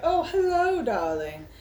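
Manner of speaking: high, sing-song camp voice; flamboyant shopkeeper. Acted. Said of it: "He's like".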